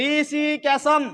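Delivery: careful demo, ক্যাসম closed with an m; final m sound. Shown as a demonstration. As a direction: end ক্যাসম on a clear m. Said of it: "ময়ের মতো উচ্চারণ হচ্ছে".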